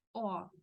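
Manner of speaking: O opened wide, like "aw". Shown as a demonstration. Teacher reminds learners, open O. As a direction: say O with an open throat. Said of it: "va a tener sonido de O".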